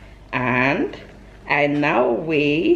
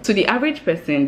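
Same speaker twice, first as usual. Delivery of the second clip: ordinary delivery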